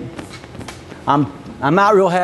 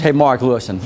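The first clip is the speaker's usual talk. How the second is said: calm respectful pitch; 4 semitones lower than usual. Shown as a demonstration. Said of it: "if I want to say".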